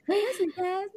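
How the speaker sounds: high, mock-proud Singaporean retort. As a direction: toss it back like a proud local. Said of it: "Singaporeans are like".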